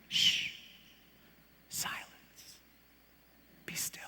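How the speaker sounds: hushed command, soft and calm; whisper. Acted. Jesus hushing the storm, soft whisper. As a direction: breathe the words to calm the storm. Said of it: "with a whisper".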